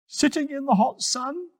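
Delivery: mocking high sneer; sarcastic jab. A narrator's reading. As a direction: poke fun at him, high and teasing. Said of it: "he said sarcastically".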